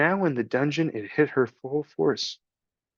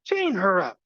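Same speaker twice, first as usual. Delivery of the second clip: higher rat shout; shouted stop; 8 semitones higher than usual. Acted. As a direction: snap to break them apart. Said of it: "shouted Roscoe".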